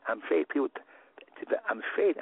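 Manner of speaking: mock frightened protest. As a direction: play the timid refusal, pitch rising. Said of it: "Ruth didn't say".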